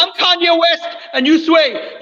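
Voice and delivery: slow, high, shouted boast; swaggering loud taunts. Acted. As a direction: shout it like a bragging rapper. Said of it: "You're just screaming".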